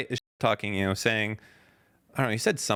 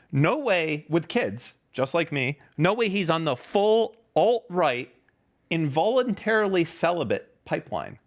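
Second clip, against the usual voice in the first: sarcastic; 5 semitones higher than usual. Real, not acted. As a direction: scoff at the idea sarcastically. Mocking the tweet's claim.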